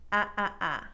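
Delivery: ah repeated, flat and nasal; repeated nasal ah drill; nasal regional ah. Shown as a demonstration. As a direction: spread the ah wide through the nose. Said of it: "with regionalisms would sound like".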